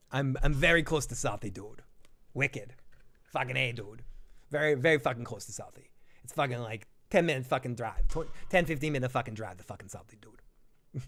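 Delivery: mock Southie townie accent; casual, sweary Boston dude. Streamer brags of living near Southie, mock Boston accent.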